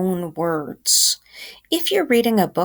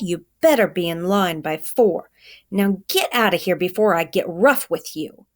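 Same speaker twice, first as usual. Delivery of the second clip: lightly voiced gruff man scolding; a hint of a hard-nosed man laying down rules; stern doorman; 3 semitones higher than usual. Doorman scolds the late boy, lightly voiced stern lecture.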